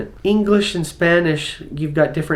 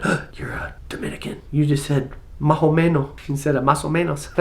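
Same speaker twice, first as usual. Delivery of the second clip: whispered aside; 4 dB quieter than usual. Retold or imitated. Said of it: "I'm going".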